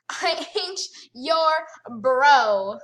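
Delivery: laughing retort, slowly drawn out; amused slow repeat of ain't your bro. Real, not acted. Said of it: "repeated laughing".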